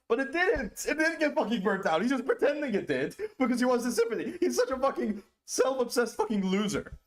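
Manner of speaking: high, loud ranting; angry. Real, not acted. Streamer raging at Dylan, high loud rant. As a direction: shout it down indignantly.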